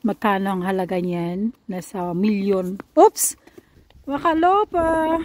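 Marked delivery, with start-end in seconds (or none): 2.9-5.2 high, loud exclamation. Real, not acted. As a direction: call out to a little one, pitched way up. Reacting to the child on walk.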